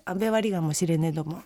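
low-pitched Akita dialect. Shown as a demonstration. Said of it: "秋田弁でこのまま喋っていく".

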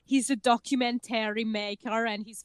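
put-on serious German-accented documentary maker; measured German accent, earnest tone; Werner Herzog. Explaining the documentary maker to co-host, serious German accent. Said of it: "I can only do one German accent".

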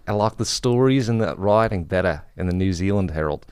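lightly put-on Australian accent, casual; imitation Aussie accent; mock Australian accent. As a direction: quote him in a broad-vowelled Australian accent. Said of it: "That's what he says".

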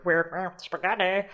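"spaghetti" said oddly, with an ah in the middle and an ay ending; weird pronunciation. Shown as a demonstration. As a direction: play up the odd vowels in "spaghetti". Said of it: "just came out of my mouth weird".

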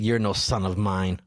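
low, slow mock disowning of a son; retold telling-off, slow and low; mock scolding. Dad retelling telling off his son over tea, mock scolding. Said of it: "I yelled at my son".

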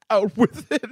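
put-on high, slow old-timey gangster voice; a 1920s mobster with a zoot suit; twenties gangster. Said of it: "He's some twenties gangster".

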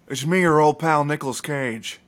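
lightly voiced movie star intro; mild Cage-style greeting; Nicolas Cage impression. Shown as a demonstration. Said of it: "so my Nicolas Cage is".

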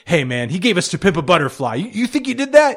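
high, loud, disbelieving mock plea; mock incredulous defender. Mocking a defender pleading to the court, high and incredulous. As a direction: squeal it like you can't believe the charge. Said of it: "uh, it's like".

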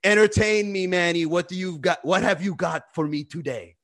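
lightly voiced imperious queen; a hint of a queen demanding her entertainment; haughty queen. Host mocks a friend ruling from her throne, haughty. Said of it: "she sits on a throne and she's like".

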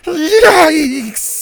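startled yikes. Acted. Bo nearly hit by a fireball, yelping in alarm. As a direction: yelp as the fire brushes past.

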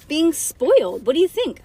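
put-on high, loud, incredulous kid; emphatic retort. A narrator's reading. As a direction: answer as though it is obvious. Ivy answers as if obvious.

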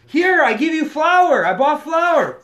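loud, slow, high broken English; retold pleading in put-on broken English. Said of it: "broken English thing".

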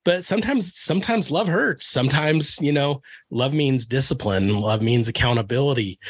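choked up, pushing through the words; getting emotional. Real, not acted. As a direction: voice lifting as emotion wells up, struggling to hold it together. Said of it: "I'm gonna get emotional".

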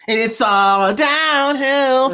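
high, slow, hammy villain line; ominous Hitler voice. Pretend. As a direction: drag it out like a doomed prophecy. Voicing Hitler as a joke.

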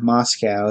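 MOSCOW said MOS-cow, falling at the end; pronunciation demo. Shown as a demonstration. Correcting the film on pronunciation, Moscow said as MOS-cow. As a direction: plainly sound out Moscow with a "cow" ending. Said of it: "in all but American English, the pronunciation".

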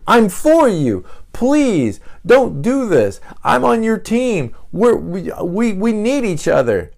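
high, loud pleading voice; pleading loyal friend. Acted. A six begging a friend not to turn, high pleading voice. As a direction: beg them to stay on your side.

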